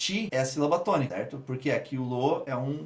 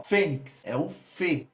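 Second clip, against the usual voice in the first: single out "fê" as the strong beat of "Fênix"; stressed syllable isolated; much slower than usual. Shown as a demonstration. Teacher answering which syllable is stressed, "fê" slowly isolated. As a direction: slowly say "Fênix", then "fê" alone. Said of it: "a sílaba tônica qual que é".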